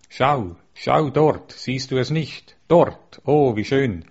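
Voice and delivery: excited, awed crowd calling out, pitch jumping; joyful cries of someone pointing out a marvel; jubilant cries. Acted. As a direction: call out in wonder, stretching the first words. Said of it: "als plötzlich Jubelrufe ertönten".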